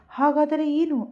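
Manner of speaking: slow anguished "so what then?"; pained question. A narrator's reading. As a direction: let the hurt lift the question slowly. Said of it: "ನೋವಿನಿಂದ ಕೇಳಿದನು".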